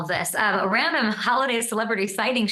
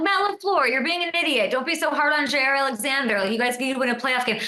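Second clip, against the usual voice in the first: higher, exasperated telling-off; mock scolding; 3 semitones higher than usual. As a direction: scold the coach like a frustrated fan. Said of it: "I'm like".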